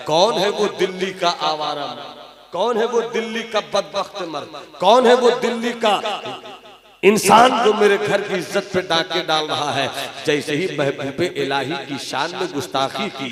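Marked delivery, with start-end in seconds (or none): 0.1-9.9 angry demand. Acted. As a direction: build the accusing question as anger rises. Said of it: "गुस्से में वो कहता है". (ग़ुस्से में बढ़ती आवाज़)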